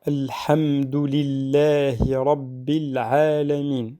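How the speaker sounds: Alhamdulillahi Rabbil Alamin recited slowly and evenly; slow recitation. Shown as a demonstration. Teacher reciting Al-Fatiha for students, slow recitation. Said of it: "donc après".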